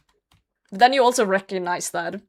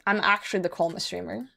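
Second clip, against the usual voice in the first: softer, insistent "actually" on the repeat; softer insisting; 5 dB quieter than usual. Real, not acted. Streamer insisting to chat he's calm, softer and insistent. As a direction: drop your voice and insist you really are calm.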